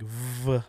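"V" with a long buzzing v; emphatic V sound. Shown as a demonstration. Showing friends the English letter, emphatic V. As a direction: draw out the consonant in "V". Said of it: "It's very, like".

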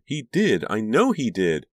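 high, loud, desperate insistence; crying out. A narrator's reading. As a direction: insist it in anguish. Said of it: "Karina cried".

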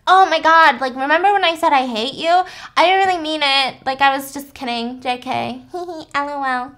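put-on a kid laughing off what he said; bubbly kid backpedaling. Son apologizes excitedly.

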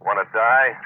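angry rebuff over the line; sharp retort. Acted. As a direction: snap it back at him. Sharp retort to rescue offer.

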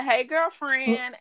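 imitated slow singsong greeting; friendly greeting. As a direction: greet a pal, stretched out and lilting. Acted friendly phone greeting from client.

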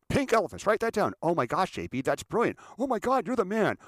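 high, loud mock awe; hammed-up yes-man raving; sycophantic gushing. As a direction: fawn over the boss's idea. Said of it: "they're kissing his backside on this".

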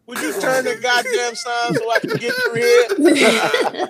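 laughing, shouted plea at the sign guy; exasperated yell at flagger. Retold or imitated. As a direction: yell it, half laughing, fed up. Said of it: "and you be like".

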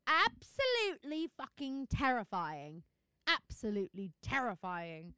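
slow, hammed-up British accent. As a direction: put on a drawn-out British accent. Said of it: "Is that the good British accent".

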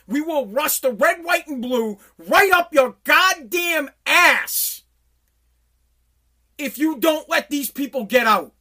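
starts slow and deliberate, swells to a shout; a mock presidential ultimatum that grows into a shout; building ultimatum. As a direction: build from a measured threat to yelling. Imagined ultimatum to the Taliban.

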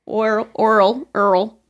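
oil said "Earl". Shown as a demonstration. Mocking granddaddies, oil said as Earl. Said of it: "Instead of oil".

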